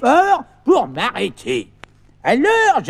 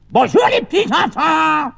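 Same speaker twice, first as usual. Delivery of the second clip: shouted greeting; 2 semitones higher than usual. Acted. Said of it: "criez plus fort".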